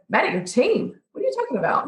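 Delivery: retold disbelief, pitch jumping up high; incredulous teacher. Chef answers student mad at her team, incredulous.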